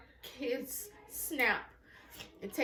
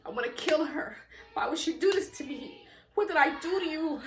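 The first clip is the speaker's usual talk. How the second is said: retold anger; 3 semitones higher, 4 dB louder than usual. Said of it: "I said".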